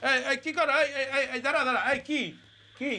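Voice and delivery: high-pitched, alarmed repeated "hey"; startled protest. Acted. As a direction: stop them in sudden alarm, voice jumping up. Startled by employee's sudden salutation. (চমকে উঠে উঁচু গলায় বাধা)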